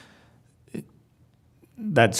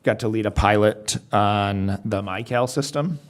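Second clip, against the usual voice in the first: muffled, as if through a hand. Real, not acted. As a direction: voice muffled on the line. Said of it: "you were muffled".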